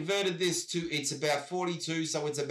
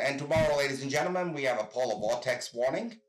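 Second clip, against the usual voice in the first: put-on worst American accent; 3 semitones lower, faster than usual. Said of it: "I'm gonna do my worst American accent".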